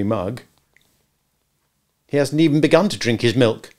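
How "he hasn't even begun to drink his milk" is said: put-on interposing child. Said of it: "Nibs interposed".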